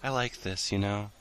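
a hint of a clingy sleepy child; mock scared whimper. Continues clingy role voice.

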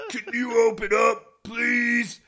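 loud plea through a door; calling through a door. Acted. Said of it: "he called through the door".

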